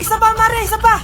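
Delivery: high, urgent coaching; urging on. Acted. Midwife telling mother to push, urging.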